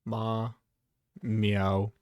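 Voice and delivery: cat meows, dropping deep; meowing. Pretend. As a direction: meow like a cat.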